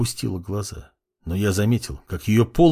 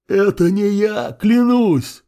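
high, louder panicked scream; screaming in tears; 10 semitones higher, 3 dB louder, slower than usual. A narrator's reading. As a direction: scream the oath through tears. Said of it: "заорал во всю глотку князь, обливаясь слезами". (истошный крик сквозь слёзы)

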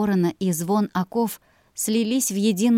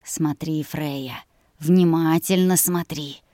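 slow theatrical villain menace; 2 semitones lower, slower than usual. Acted. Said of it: "Тихий голос приказывал мне".

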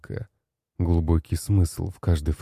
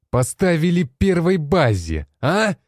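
much higher, strained raging shout; furious tirade; 6 semitones higher than usual. Acted. Commander rages at the generals over the failed operation. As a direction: keep screaming the accusations without pause.

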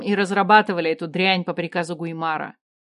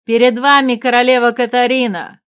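stern announcing voice, louder; stern guard Drake; 4 semitones higher, 8 dB louder than usual. A narrator's reading. Guard Drake announces the queen to a crowd, stern. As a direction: present the queen sternly and loudly. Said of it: "сказал Дрейк суровым голосом".

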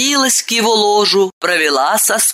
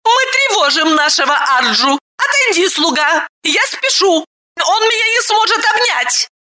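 much higher angry woman, quick; 11 semitones higher than usual. A narrator's reading. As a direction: shoo the servant off in anger. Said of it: "гневно сказала Тхиру". (гневно гонит слугу, высоко и громко)

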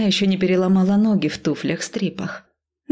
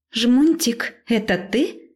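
agitated; 6 semitones higher, much slower than usual. Acted. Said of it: "взволнованный голос подруги".

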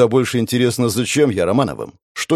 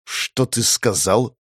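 gritted teeth; much slower than usual. Acted. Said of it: "процедил я".

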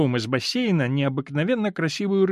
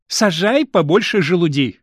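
said through a laugh, louder; 4 semitones higher, 6 dB louder than usual. A narrator's reading. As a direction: laugh the words out. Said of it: "рассмеялась Пола".

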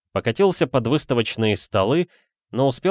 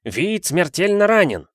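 higher, louder crowd cry; alarmed shout; 9 semitones higher, 4 dB louder than usual. A narrator's reading. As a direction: call out in alarm. (тревожный крик из толпы)

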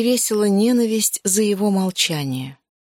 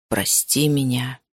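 low, slow male plea; repeated apology; 6 semitones lower, slower than usual. Acted. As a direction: lower and slower, begging forgiveness. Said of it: "Он снова повторил эти слова". (низко и медленно, он снова просит прощения)

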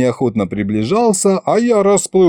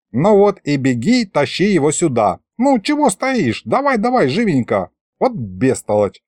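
pitched-up grandpa chivvying; impatient hurrying; 5 semitones higher than usual. Acted. Grandpa sends a dawdling officer on an errand, impatient hurrying. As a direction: shoo him along, then drop into a grumble.

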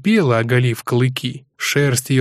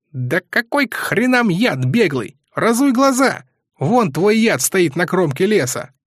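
annoyed; 7 semitones higher than usual. Acted. Annoyed soldier Hook snaps.

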